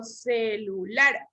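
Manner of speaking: "celular" slowly split ce-lu-lar; syllable by syllable. Shown as a demonstration. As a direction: sound out "celular" slowly for the class. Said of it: "¿Dónde llevará el acento".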